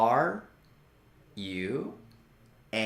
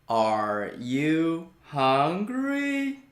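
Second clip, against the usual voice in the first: slow drill repeat. Shown as a demonstration.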